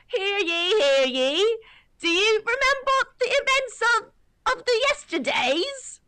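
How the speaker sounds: high-pitched, drawn-out British town crier. Acted. Proclaiming news to the people as a modern day town crier. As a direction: cry it out slowly and loudly in a British accent. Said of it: "sort of like a modern day town crier".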